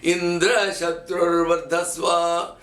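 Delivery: Indra Shatrur Vardhaswa chanted slowly, pitch up on Indra and down on Shatrur; slow chant stressing Indra, not Shatrur; accent on Indra. Shown as a demonstration. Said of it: "put the emphasis on Indra".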